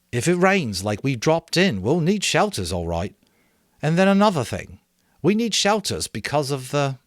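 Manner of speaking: high, loud reasoning; earnest boy. A narrator's reading. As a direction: argue the point. Ralph argues.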